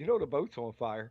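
very calm, perfectly even delivery. Retelling how a wife announced the boat was on fire: imitating wife saying it calmly. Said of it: "so calmly".

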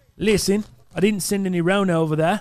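Australian accent impression. Delivering a message as the absent gift sender: put-on Australian accent. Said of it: "I don't know if that's a good impression".

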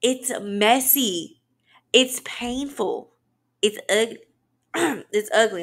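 slow voice, cracking and breaking on the words. Talking about committing to healing, voice cracking. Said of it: "I don't know why my voice is cracking out".

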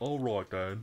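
put-on old-fashioned British accent. Asked by a fellow player what accent this is, answering in an old-timey British accent. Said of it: "Yield-timey British?".

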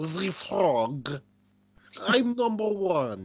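loud, high-pitched frog voice, one word stretched. Asked by the other speaker to do Constantine: Constantine doing Kermit. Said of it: "you want to do Constantine doing Kermit?".

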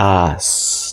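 said slowly, broken into separate syllables. Showing a learner how a word sounds when broken into syllables. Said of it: "it's hard when you break it into pieces".

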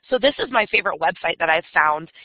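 plain

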